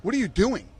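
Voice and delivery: mock-shriek it at the fighter; a hammed-up cry of disbelief at the fighter for leaving the cage; retold outburst. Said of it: "I said".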